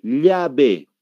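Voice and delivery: "llave" with a palatal LY sound; "llave" said as "lyabe"; Bolivian LL. Shown as a demonstration. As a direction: start "llave" with a clear Bolivian LY. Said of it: "aquí decimos".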